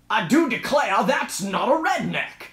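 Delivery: lightly hammed-up British-redneck accent; mock protest in a British redneck voice. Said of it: "you just went British redneck".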